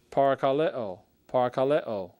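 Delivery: parakaleo, pronounced pa-ra-ka-LE-o, the stress on LE; said twice, clearly; Greek word demo. Shown as a demonstration. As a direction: model parakaleo for students to repeat. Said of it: "notice where the stress is on these".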